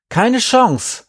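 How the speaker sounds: high, loud outcry; called-out refusal. A narrator's reading. Andi refusing to hand over paper, calling out loudly. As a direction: cry it out in indignant refusal. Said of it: "rief ich".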